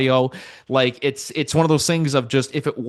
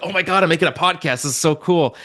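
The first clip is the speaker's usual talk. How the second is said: quick, higher-pitched gushing; excited beginner; 4 semitones higher, faster than usual. Retold or imitated. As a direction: gush in a rush, re-enacting old excitement. Acting out his earlier excitement.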